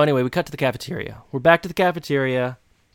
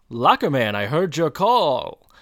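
super nerd; 4 dB louder than usual. Retold or imitated. Friend greets Eric banging his head on a locker, super-nerd call. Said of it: "like a super nerd and goes".

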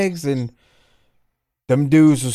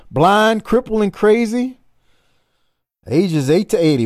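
wrestling promo; 4 semitones higher than usual. Retold or imitated. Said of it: "let's go to Flair now".

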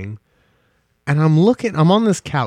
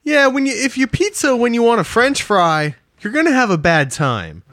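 high, put-on cartoon voice; South Park impression; 9 semitones higher than usual. Friend quoting South Park to cohost, high cartoon voice. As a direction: do the South Park ski instructor, pitched way up. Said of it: "South Park is like".

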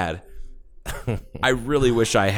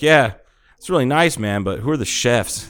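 football player; 3 semitones higher than usual. Retold or imitated. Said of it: "He's like".

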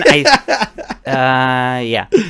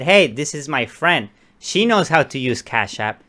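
slow, lightly voiced clueless caller; playing dumb; 3 dB quieter, slower than usual. Baiting the scammer, mild slow and clueless act. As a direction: drag it out like you can't keep up. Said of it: "I'm just trying to be stupid".

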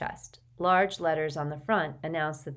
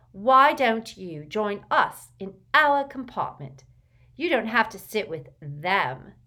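put-on confident girl; 5 semitones higher, 6 dB louder, slower than usual. A narrator's reading. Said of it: "she added in a stage whisper".

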